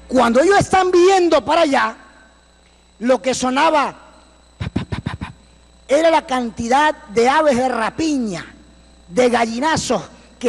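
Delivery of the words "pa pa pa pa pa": imitated flapping noise. Imitating sound of the vultures.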